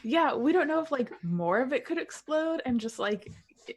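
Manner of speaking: loud, high, urgent; worried warning. Acted. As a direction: press the danger.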